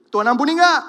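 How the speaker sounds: shouted repeat of the question. Shown as a demonstration. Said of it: "Saya mau nanya sama saudara".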